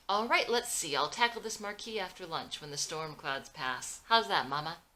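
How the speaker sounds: loud, chipper announcement; brisk and jolly, rallying the day; upbeat cheer. Acted. Abe cheerfully telling Mama his plan for the marquee.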